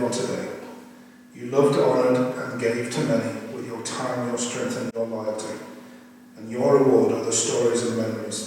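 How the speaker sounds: solemn, measured prayer read; closing prayer. Acted. Child reading closing prayer to late father, solemn.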